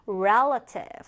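"relative" drawn out slowly for learners; slow, careful teaching "relative"; model pronunciation. Shown as a demonstration. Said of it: "자, 조금 어렵죠?".

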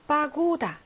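파고다 with a long stressed 고. Shown as a demonstration. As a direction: lean on 고 in 파고다. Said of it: "강세 있고요".

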